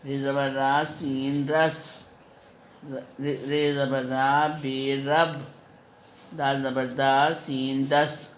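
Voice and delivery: put-on slow, drawn-out syllable-by-syllable spelling for young children; slow spelling drill. Shown as a demonstration. Teacher spelling out letter sounds slowly for her pupils. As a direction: spell each sound out slowly so the kids can follow.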